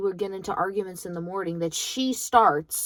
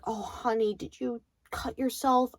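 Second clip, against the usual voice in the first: kind teacher; 4 semitones higher, 4 dB quieter than usual. Retold or imitated. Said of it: "she was so kind".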